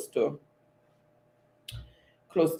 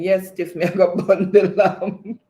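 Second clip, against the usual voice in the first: reads the chat in Jamaican patois, laughing through it; Jamaican patois quote; 3 semitones higher, 5 dB louder than usual. Retold or imitated. Host reading a viewer's chat aloud in Jamaican patois. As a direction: give Ricardo's line a Jamaican lilt. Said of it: "Ricardo is saying".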